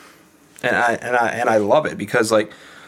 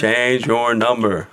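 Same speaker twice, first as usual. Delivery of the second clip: slow, spaced-out CHANGE YOUR NUMBER; emphatic advice; much slower than usual. Retold or imitated. Friends telling him firmly, slow emphatic delivery. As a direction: spell out "Change your number" word by word, slowly.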